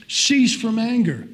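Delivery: slow, loud, emphatic command; commanding voice of God. Retold or imitated. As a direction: lay down the word as God's order. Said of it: "God is saying".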